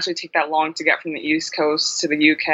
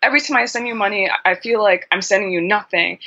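higher, fast exasperated mother; frustrated mom; 4 semitones higher than usual. Retold or imitated. Daughter imitating her mother's frustrated complaint. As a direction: complain like a mom wiring money abroad. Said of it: "she'd be so frustrated".

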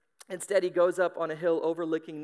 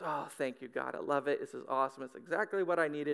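low, softer, contented relief; relieved sigh; 4 semitones lower, 4 dB quieter than usual. Acted. Jonah thanking God for the shade, blissful relief. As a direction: sink gratefully into the comfort.

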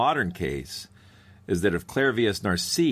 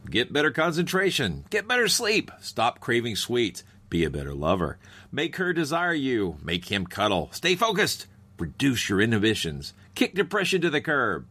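punchy commercial pitch voice; ad read; 3 semitones higher than usual. Acted. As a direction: sell it like a pill ad. Mock ad slogans list.

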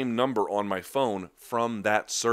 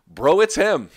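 bro, it's him, laughing it off, pitched up and louder; laughing disbelief; 9 semitones higher, 10 dB louder, slower than usual. Real, not acted. Host laughing at commenters who doubt the clip, laughing loud and high. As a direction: laugh at the doubters while insisting.

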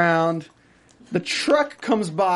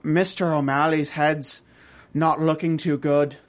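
put-on Irish accent; 3 semitones lower than usual. Retelling the scene to a co-host, hint of Irish accent. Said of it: "Why are you Irish?".

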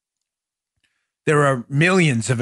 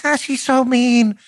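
mocking liberals; 8 semitones higher, slower than usual. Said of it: "I know liberals like".

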